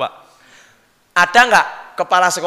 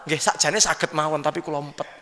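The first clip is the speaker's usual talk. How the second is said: humble reply; 5 dB quieter than usual. Acted. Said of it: "Kamu pernah jadi Kapolres".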